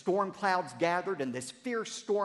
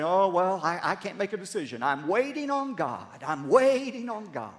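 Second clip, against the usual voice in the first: mock indecisive excuse; 2 semitones higher, 5 dB louder than usual. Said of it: "They'll go around and say".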